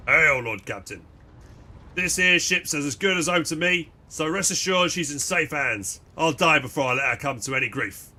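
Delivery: put-on gruff old sailor. Dour helmsman voiced by reader.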